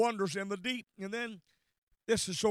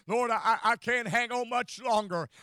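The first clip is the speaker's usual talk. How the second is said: laughing through it. Acted. Anguished prayer with laugh heard.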